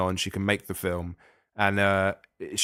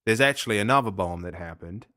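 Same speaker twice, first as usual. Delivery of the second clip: put-on Australian accent. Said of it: "you were indulging your Australian accent there".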